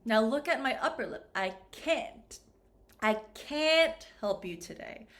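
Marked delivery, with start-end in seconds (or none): 1.3-5.1 "can't" with a fuller, more produced vowel. Shown as a demonstration. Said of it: "this vowel sound is more produced".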